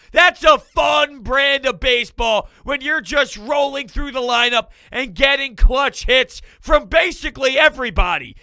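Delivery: ordinary talk, nothing marked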